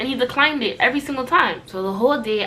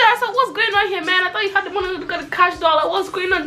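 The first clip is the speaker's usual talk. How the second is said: sarcastic retort; 8 semitones higher than usual. Retold or imitated.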